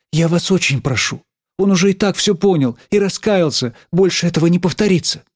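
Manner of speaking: pleading. A narrator's reading. Schoolgirl pleading for a boy who repented, imploring. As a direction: plead on a friend's behalf. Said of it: "взмолилась я".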